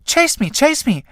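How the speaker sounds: high teasing. Acted. Clytie teases Tramp.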